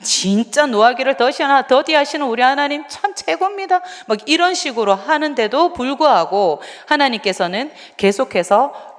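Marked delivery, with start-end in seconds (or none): 0.0-3.8 higher mock praise, sarcastic. Shown as a demonstration. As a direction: fake flattery full of sarcasm. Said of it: "그런 어투로". (비꼬는 투의 과장된 찬양)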